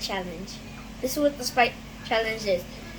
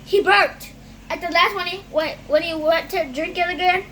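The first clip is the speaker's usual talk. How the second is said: excited; 5 semitones higher than usual. Real, not acted. Kid excitedly reports a burp.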